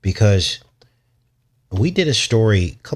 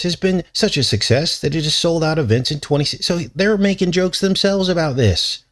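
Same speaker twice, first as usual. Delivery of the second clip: silly newscaster voice; 3 semitones higher than usual. Pretend. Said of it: "let's read some of this in silly newscaster voice".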